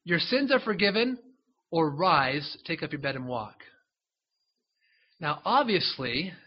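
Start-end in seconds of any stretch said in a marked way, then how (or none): 0.0-3.6 challenging question. Acted. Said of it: "And he goes".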